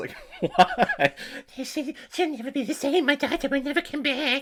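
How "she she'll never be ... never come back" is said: put-on high-pitched cartoon kid voice. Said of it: "She has the Cartman voice".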